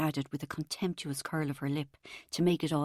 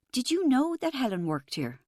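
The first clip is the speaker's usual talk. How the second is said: shaky voice; 6 semitones higher, 3 dB louder than usual. A narrator's reading. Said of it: "I asked in a shaky voice".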